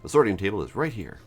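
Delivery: lilting, gently cautionary advice; knowing herbalist character. Acted. Herbalist character advises the player on foraging, lightly cautionary.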